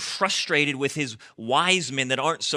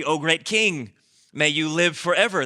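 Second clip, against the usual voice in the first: lightly voiced humble courtiers bowing to the king; a hint of humble deference, offered up; humble wise men; 3 dB louder than usual. Preacher voicing wise men greeting the tyrant, mildly humble. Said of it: "with a lot of humility".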